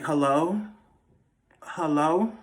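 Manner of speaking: tentative rising call into the dark; movie kid calling. Retold or imitated. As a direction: imitate a movie kid checking who's there. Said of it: "Like the little kids do in the movies".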